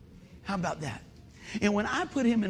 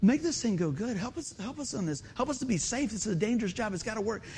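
softer, earnest murmured prayer; quiet prayer; 5 dB quieter than usual. Retold or imitated. Preacher retelling his prayer beside the welders, soft and earnest. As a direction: pray it under your breath. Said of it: "And so I'm praying".

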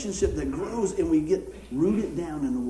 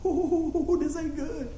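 worried inner thought; 9 semitones higher, much slower than usual. Retold or imitated. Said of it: "I'm thinking".

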